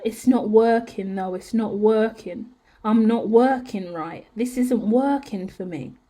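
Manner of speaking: slow, discouraged-sounding repetition; inner voice. Acted. Reader voices what she hears in her head, slow lament. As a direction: dwell slowly on each phrase, like a nagging thought. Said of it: "in my head, I hear".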